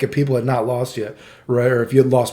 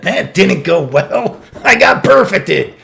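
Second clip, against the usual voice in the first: laughing; 4 semitones higher, 4 dB louder, slower than usual. Real, not acted. Laughing at own defeat.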